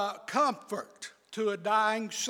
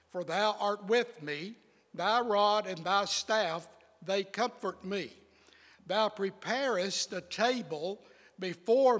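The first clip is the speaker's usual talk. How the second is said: scripture reading; 2 semitones lower than usual. Acted. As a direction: read it like holy words. Reads Psalm 23 aloud.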